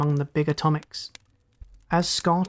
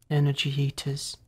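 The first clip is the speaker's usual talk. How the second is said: forced through rigid lips; 2 semitones lower, 4 dB quieter than usual. Acted. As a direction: barely force out the words. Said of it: "Through rigid lips, he forced the words".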